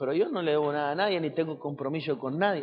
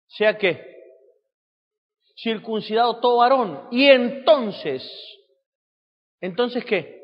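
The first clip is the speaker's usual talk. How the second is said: raised, higher scripture declamation; preaching; 5 semitones higher, 4 dB louder than usual. Acted. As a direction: declaim the verse to the congregation. (predicando el versículo con voz alzada)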